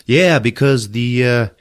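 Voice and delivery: high, loud, laughing explanation; laughing through it. Retold or imitated. Amara explaining the wiring, laughing loudly and high. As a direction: tell the robot detail while cracking up.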